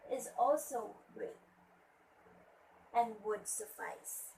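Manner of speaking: measured poem reading with pauses between phrases; deliberate classroom poem reading; poem recitation. Shown as a demonstration. Teacher reads a poem aloud to class.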